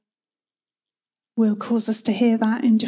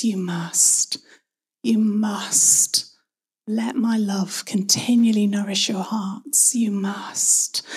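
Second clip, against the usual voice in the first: loving invitation; much slower than usual. Acted. God who cares deeply inviting each one, loving and gentle. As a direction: offer it tenderly, no pressure on it. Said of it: "A loving invitation from a God who cares deeply".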